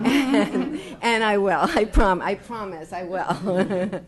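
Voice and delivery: laughing as the promise comes out, slowing on the last words; a fond laugh breaking into the vow; laughing through a promise. Real, not acted. To her mother in the front row, laughing while promising.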